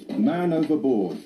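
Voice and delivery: slow, emphatic demo of the alarm call; man overboard shout. Shown as a demonstration. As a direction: spell out the shout for trainees. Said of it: "You need to shout".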